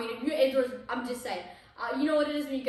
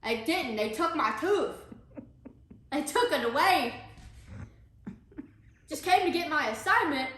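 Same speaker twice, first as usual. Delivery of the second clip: gauze in mouth. Retold or imitated. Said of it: "I had gauze in my mouth".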